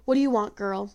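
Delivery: a touch of a harsh crone snapping at the door; lightly voiced old granny, unfriendly; old woman shooing a girl from her door, mildly harsh. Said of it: "voice was as harsh and as merciless as the crow's".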